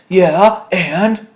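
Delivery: retold supervisor brushing it off; snide supervisor. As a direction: toss it off like a smug boss. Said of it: "And he's like".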